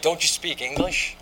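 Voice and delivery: a retold old man's angry yell, only half loud. Grandfather yelling at a boy who drank his beer, a mild mock yell. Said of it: "he's just yelling at me".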